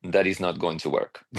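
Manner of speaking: light Russian accent, imitating a friend; a hint of a Russian accent. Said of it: "in his Russian accent".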